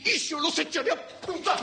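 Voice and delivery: high-pitched, worked-up threat; furious threat. Acted. Landowner threatening her mowers, furious. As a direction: threaten at the top of your range.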